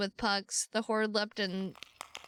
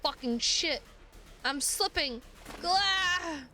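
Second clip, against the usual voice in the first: panicked; 8 semitones higher, much slower than usual. Real, not acted. Slipping off the wall in game.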